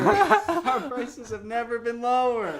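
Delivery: high, loud, slow laughing announcer. Pretend. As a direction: boom it like a TV commercial. Hammed-up ad announcer.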